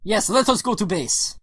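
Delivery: agreeable Russian comrade; formal broken English, Russian accent; lightly voiced Russian rebel. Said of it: "that's the Russian buddy".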